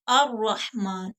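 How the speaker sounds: अर्रहमान with doubled r, no l; ar-rahman, not al-rahman; lam hidden. Shown as a demonstration. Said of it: "अल रहमान नहीं पढ़ सकते". (अर्रहमान, लाम के बिना)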